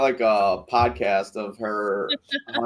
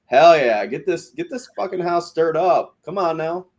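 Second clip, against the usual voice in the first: high-pitched, egging-on cheer; rowdy mock hype; hyped-up cheering; 6 semitones higher, 3 dB louder than usual. Acts out own gleeful cheering reaction.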